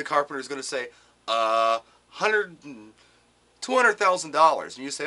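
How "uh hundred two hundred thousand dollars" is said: louder, offhand guess at a big number; carpenter quoting price. Retold or imitated. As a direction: shrug out the figure like a carpenter.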